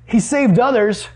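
imitating scornful onlookers, slowly; mocking. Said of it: "mocked him to one another".

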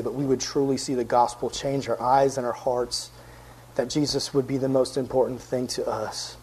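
low, subdued, earnest praying voice; prayer. Real, not acted. Preacher asking God to bring minds into focus, prayer. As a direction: speak softly and steadily to God.

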